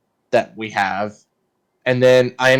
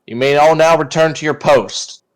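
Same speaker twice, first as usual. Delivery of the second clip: commanding officer; 4 semitones higher, 6 dB louder than usual. Acted.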